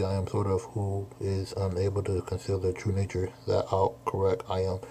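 half-hearted formal samurai reading, barely in character; mock archaic samurai speech. Streamer reading manga samurai lines aloud, a hint of stiff archaic delivery. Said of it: "I do not like talking like this".

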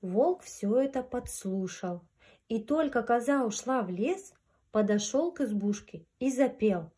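gentle storyteller voice; grandma telling fairy tale. A narrator's reading. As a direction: read it like a bedtime fairy tale. Reads fairy tale to children.

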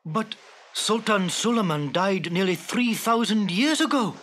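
mildly exclaimed disbelief; crying out. Acted. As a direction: object in astonishment to the genie. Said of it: "cried Abdullah".

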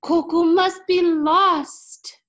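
high, loud, slow despairing cry; girl fears her baby brother is lost, wailing; cried aloud. A narrator's reading. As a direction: wail it out in panic. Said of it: "Yemi stopped and cried aloud".

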